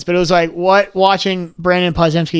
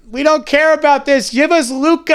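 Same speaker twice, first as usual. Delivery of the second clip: mock demanding fans; 7 semitones higher than usual. Mimicking fans' demands.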